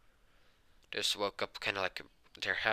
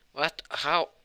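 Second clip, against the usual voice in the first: startled; 8 semitones higher, 7 dB louder than usual. Acted. Startled girl grabbed in sleep.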